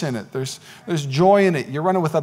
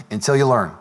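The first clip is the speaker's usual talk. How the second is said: lower, even-toned refrain; low-pitched intoning; 4 semitones lower than usual. Real, not acted. Preacher repeats a refrain to the congregation, low and level. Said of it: "I don't know why I was talking like this".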